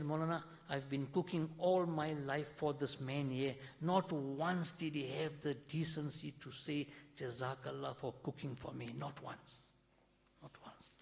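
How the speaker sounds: quiet, fading to a tearful whisper; hurt complaint. Acted. Wife tells the Maulana her husband never thanked her, quiet and tearful. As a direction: let the hurt sink to a hushed, broken voice.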